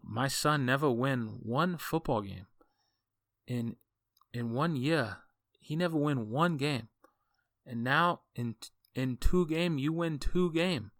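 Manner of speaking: a light mock Asian accent, slow and rising; imitating Asian accent. Coach mimics grateful dad in mock Asian accent. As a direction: retell the dad's broken English in a thick Asian accent. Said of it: "in this real thick Asian accent".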